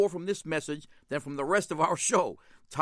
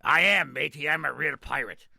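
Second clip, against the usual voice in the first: hammed-up pirate, louder at the start; 6 dB louder than usual. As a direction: play the old pirate proudly. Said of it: "And the pirate says".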